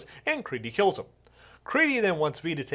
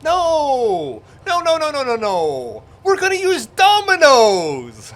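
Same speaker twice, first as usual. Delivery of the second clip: frantic yelling; panicked shouting protest; 7 semitones higher, 10 dB louder, slower than usual. Real, not acted. Frantic protest before the recap.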